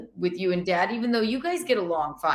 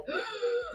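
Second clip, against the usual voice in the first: high, soft intake of breath; sharp gasp; 13 semitones higher, 10 dB quieter than usual. Acted. Daughter showing how she takes the yelling, gasping. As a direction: gasp as the stunned sounding board. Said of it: "you just go like".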